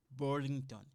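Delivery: Burlington with an English r-coloured "Bur"; English pronunciation. Shown as a demonstration. Teacher showing students the English Burlington, English pronunciation. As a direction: say Burlington the English way, "BER-ling-tən". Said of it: "we say this in English".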